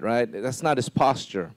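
usual speaking voice

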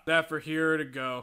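cashier voice. Acted. Taco Bell cashier.

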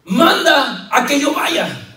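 high, slow, hesitant plea; doubting Peter. Acted. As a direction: stretch it out high like an unsure Peter. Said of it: "y le dice".

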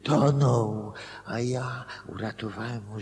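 sudden exclamation. Acted. Man convincing himself he saved someone, loud and eager. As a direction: blurt it out as if struck by the idea. Inventing a rescue story eagerly.

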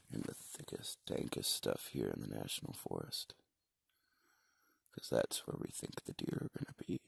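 whispering. Real, not acted. Quiet in the hunting blind.

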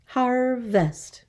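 "Harvest" in two beats, har-vest; syllable by syllable. Shown as a demonstration. Teacher counting two syllables, "Harvest" split in two. Syllable lesson, word broken up.

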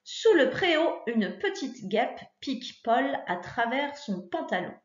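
dictation-style sentence read to a pupil; teacher reading her example sentence. Shown as a demonstration. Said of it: "j'ai choisi de faire".

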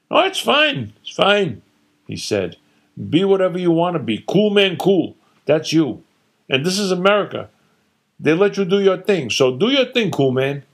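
mocking hippie lingo, high and fast; sarcastic father. Father sarcastically mocking his hippie son. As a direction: sneer at the son's lifestyle.

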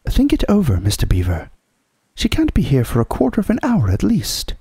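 high-pitched sensible wife; Missus Beaver, brisk reassurance. Acted. Wife correcting Mister Beaver's hurry, unruffled.

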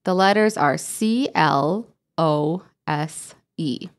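C L O S E named one letter at a time; spelling letter by letter. Shown as a demonstration. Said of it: "How do you know?".

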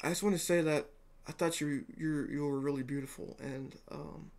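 halting, softening into a mumbled trail-off; nervous compliment. Pretend. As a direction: act out a shy, stumbling compliment. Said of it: "She'll be nervous. You'll be like".

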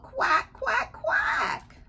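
high, rising mock wail in quacks; sad quacking. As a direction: quack plaintively for a missing friend. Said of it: "they're sad".

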